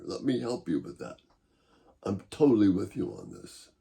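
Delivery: soft, low, gentle reassurance; quiet comforting words to someone struggling; reassuring. Shown as a demonstration. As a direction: comfort them, keep it quiet and close. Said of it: "perhaps saying something like this".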